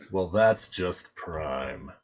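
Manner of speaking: low slow pun delivery; cheesy one-liner. Acted. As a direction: drop the pun like an action hero.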